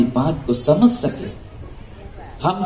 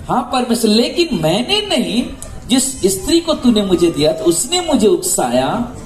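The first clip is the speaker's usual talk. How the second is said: higher-pitched, mildly acted protest; protesting excuse; 5 semitones higher than usual. Adam answering God about the fruit, protesting. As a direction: push the blame onto someone else. Adam shifts blame when questioned.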